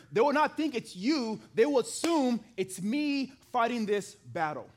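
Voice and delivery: forceful king's claim. Retold or imitated. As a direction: push it like a commanding king. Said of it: "What Saul is doing is this".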